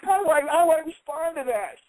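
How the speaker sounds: lost for words, half laughing; baffled disbelief. Retold or imitated. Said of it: "I was like".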